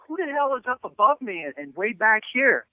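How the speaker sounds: retelling his own confused outburst, mildly; baffled exclamation. Retold or imitated. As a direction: act puzzled at someone above you. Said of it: "I'm going".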